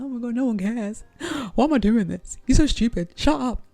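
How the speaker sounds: mock meltdown ending in a yelp; spiraling panic. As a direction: escalate from worried to a mock scream. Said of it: "that's, like, spiraling".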